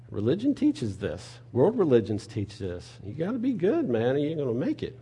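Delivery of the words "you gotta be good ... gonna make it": mock religious voice. Mocking works-based religion voice.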